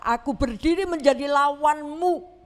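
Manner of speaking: firm declaration from the angel; stern angel. Acted. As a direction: stand in his way, firm. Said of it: "malaikat itu berkata".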